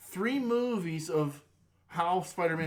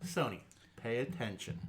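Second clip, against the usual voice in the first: mock scolding; 4 semitones lower than usual. Marvel lecturing Sony for messing around, mock scolding. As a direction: spell it out for an inattentive colleague.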